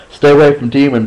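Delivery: urgent warning. Acted. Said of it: "Brad warned me".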